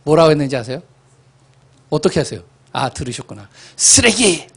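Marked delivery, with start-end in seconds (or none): 3.8-4.5 blunt retort. Retold or imitated. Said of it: "좀 심한 말을 했어요".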